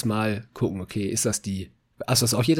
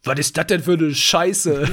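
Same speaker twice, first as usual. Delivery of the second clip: slow, higher and louder, laughing through it; surgeon's blunt quote; 5 semitones higher, 5 dB louder, slower than usual. Retold or imitated. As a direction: mimic the surgeon's rough but friendly outburst, laughing. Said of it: "die guckt das an". (laut und langsam, lachend die Chirurgin nachgemacht)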